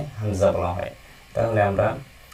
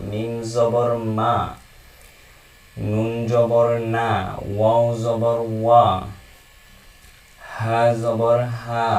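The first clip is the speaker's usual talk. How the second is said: slow, deliberate recitation of each letter; slow letter drill; slower than usual. Shown as a demonstration. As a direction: chant the letters slowly for learners. Reciting Arabic letters with vowels. (ধীরে ধীরে অক্ষর পাঠ)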